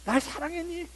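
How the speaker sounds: very high, tender question; voicing God. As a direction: ask gently as God, up high. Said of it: "그렇게 물어보실 것 같아요". (하나님 목소리로 아주 높게)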